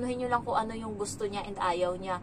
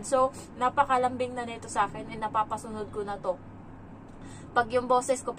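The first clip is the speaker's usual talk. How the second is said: usual speaking voice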